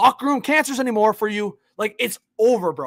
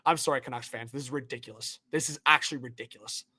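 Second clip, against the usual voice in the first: deflated disbelief; 9 semitones lower, 10 dB quieter than usual. Real, not acted. Apologising to fans after the trade.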